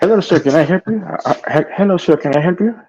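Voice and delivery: high mock Indian call center voice; squeaky hello sir in a mock Indian accent. Friends mocking phone support, high Indian accent.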